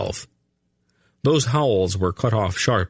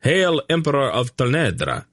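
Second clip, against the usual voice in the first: thundered salute; 7 semitones higher than usual. A narrator's reading. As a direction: proclaim it like massed legions, without full volume. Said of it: "the legions thundered".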